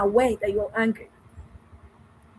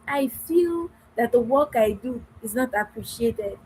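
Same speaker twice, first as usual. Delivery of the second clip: assertive. Shown as a demonstration. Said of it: "You see how I expressed myself".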